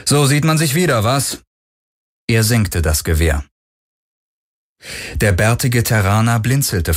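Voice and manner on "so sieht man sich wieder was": put-on cool, higher greeting of an old rival; name him with no warmth at all; without warmth. Galen greeting an old business rival, coolly. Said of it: "ohne große Herzlichkeit".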